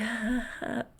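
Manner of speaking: quiet, awkward mock laugh; soft acted laugh. Man answering her costume excuse, soft acted laugh. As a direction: imitate a small laugh under the breath. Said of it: "he laughs and is like".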